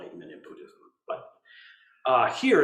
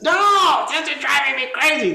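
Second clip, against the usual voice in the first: high, loud whiny protest of the self; grasping mind; 12 semitones higher, 8 dB louder than usual. Retold or imitated. The wanting self complaining in meditation, high and loud. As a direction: voice the part that wants its way, loud and high. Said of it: "when it says".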